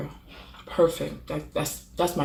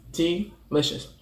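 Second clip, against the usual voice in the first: slow, drawn-out "Delicious"; lingering over "Delicious"; savoured; much slower than usual. Real, not acted. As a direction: stretch "Delicious" out, tasting it. Savours the word slowly.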